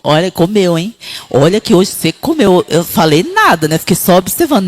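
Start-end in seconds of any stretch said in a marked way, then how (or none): 0.0-2.7 lower, lightly voiced husband teasing; a hint of the husband. Husband teasing wife about eating, lightly voiced. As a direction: lightly voice the husband noticing she ate.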